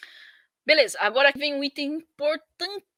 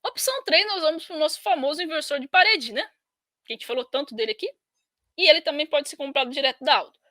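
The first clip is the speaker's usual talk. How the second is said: talking through hiccups; words broken by hiccups; hiccuping; faster than usual. Real, not acted. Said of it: "Eu tô com soluço".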